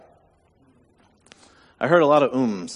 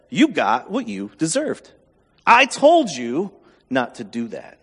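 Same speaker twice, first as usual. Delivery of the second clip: harsh inner voice; 3 semitones lower than usual. Retold or imitated. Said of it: "In my head".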